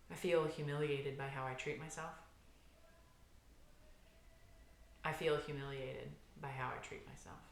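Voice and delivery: soft, subdued recitation with long pauses; guided tapping phrase. Acted. Therapist leading viewers through a tapping round, soft and subdued. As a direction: say it gently and inwardly, like a private admission.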